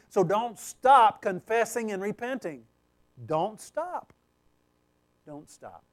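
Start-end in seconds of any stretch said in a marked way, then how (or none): 3.2-4.1 firm "don't stop", lifted at the end; urging. Real, not acted. Preacher urging listeners to keep repenting, firm urging. Preacher repeats exhortation, then drops voice. 5.2-5.8 very soft, low "don't stop"; hushed urging. Real, not acted. Preacher urging listeners to keep repenting, hushed and low. Preacher repeats exhortation, then drops voice.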